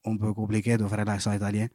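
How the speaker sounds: softly spoken mock Italian accent; French with a put-on Italian accent. Shown as a demonstration. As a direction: try a hesitant Italian accent.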